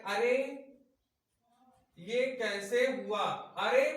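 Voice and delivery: loud "अरे", long pause, slow question; mildly acted, drawn-out surprise; demonstrated astonishment. Shown as a demonstration. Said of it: "फिर कुछ हम अचंभित type के हो जाते हैं". (हल्का बनावटी अचंभा, ठहरकर)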